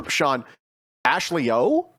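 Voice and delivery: Ashley O with a questioning rise at the end; asked as a question. Shown as a demonstration. Host proving a rising tone makes a question. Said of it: "Because of the tone".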